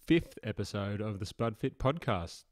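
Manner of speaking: upbeat commercial radio host; bright, punchy radio intro. Real, not acted. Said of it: "did that voice just sound a little bit like a, an F M D J?".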